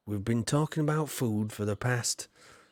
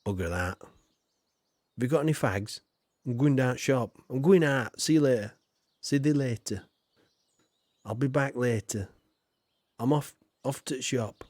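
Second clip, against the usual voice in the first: Yorkshire voice. Retold or imitated. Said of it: "massacre the English language in Yorkshire".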